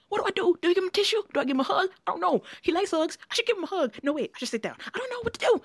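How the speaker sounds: high, rushed panicky inner voice; freaking out over what to do; flustered panic. Retold or imitated. Panicking while the guest tears up, high frantic inner voice.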